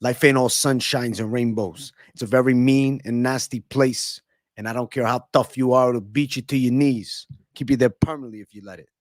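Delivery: slurred, mumbly Rocky voice; tough-guy speech like a boxer; a hint of Sly Stallone; Stallone impression. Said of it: "I can do something with Sly Stallone".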